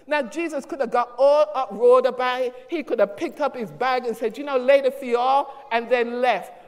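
measured pulpit preaching, urging focus. Acted. Pastor exhorting his congregation, measured preaching. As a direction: exhort the church to stay focused.

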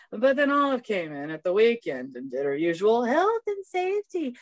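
breathy, teasing shop lady; flirty Bev voice. Acted. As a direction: read it like a flirt. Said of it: "a different take from Mysterious".

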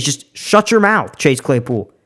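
slow and deliberate, every word spaced; slow, serious. Shown as a demonstration. Vlogger tells Chase Claypool to shut up, slow and deliberate. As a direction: spell it out slowly so he gets it's serious. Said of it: "no, like, I'm serious".

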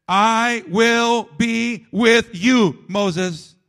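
gentle, slow reading of God's promise; slow tender promise. Acted. God's promise read slowly.

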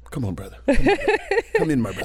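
imitating friendly driver. Uber driver welcoming him warmly.

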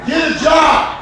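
shouting the punchline while laughing. Acted. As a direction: bark it again over the laughter. Repeats the line louder.

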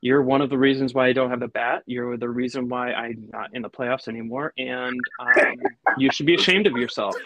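gloating villain accusation; villain monologue. Acted. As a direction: accuse him like a movie villain. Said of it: "I, I love the villain monologue".

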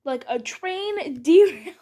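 words broken by a laugh; laughing through it. Real, not acted. Host joking about a teacher, laughing mid-line. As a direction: giggle mid-phrase.

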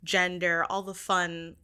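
ordinary talk, nothing marked

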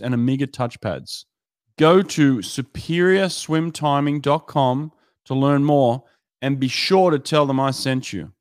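measured, scripted podcast ad delivery; sponsor ad read. Acted. Podcast host pitching swim timing gear and towers to coaches, scripted ad read. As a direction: read the sponsor copy crisply, with short pauses.

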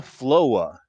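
"Floa" ending in an open "ah" instead of R; dropped R. Shown as a demonstration. Giving an example of a childhood R problem, dropped-R "Floa". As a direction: say "Floa" as two syllables, "flo-ah", no R. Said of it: "everything was O A H when it came to R".

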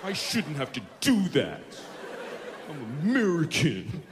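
a hint of an entitled whiner; mild mock outrage; whiny American. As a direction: complain like a spoiled customer.

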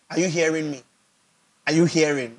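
mock preacher asking are you hearing; lightly voiced preacher checking the crowd; preacher's filler habit. Shown as a demonstration. Pastor mocking his own pulpit habit, lightly voiced. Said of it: "That's improper English".

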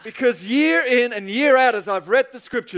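measured, emphatic sermon build; preacher's deliberate opening stretch; preaching. Real, not acted. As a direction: testify to a congregation. Preaches to the congregation.

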